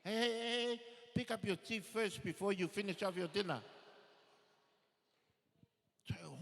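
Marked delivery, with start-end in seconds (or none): 0.0-3.6 scolding parent. Acted. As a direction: cut in loudly, mock stern. Parent barking order at child.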